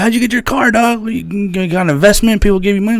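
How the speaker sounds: retold surprised questions; mock disbelief. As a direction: act stunned at the news. His own incredulous retold question.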